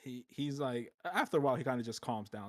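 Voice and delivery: usual speaking voice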